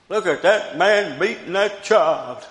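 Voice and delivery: shocked onlooker. Acted. Preacher mimics someone looking out at a whipping, alarmed onlooker. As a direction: call it out like an alarmed bystander. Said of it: "some of them would look out and say".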